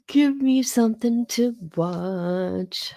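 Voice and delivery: slow words through a yawn. Real, not acted. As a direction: say it mid-yawn. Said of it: "why am I yawning now".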